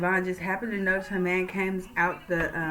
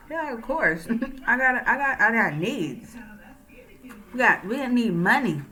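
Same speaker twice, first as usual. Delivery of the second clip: higher, laughing, cocky; laughing brag; 4 semitones higher than usual. Retold or imitated. Sydney brags about stealing.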